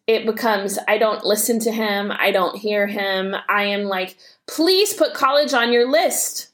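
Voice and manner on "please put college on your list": higher-pitched imploring mom; mock-plead with a stubborn teenager; insistent pleading. Mom begging her son to consider college, insistent pleading.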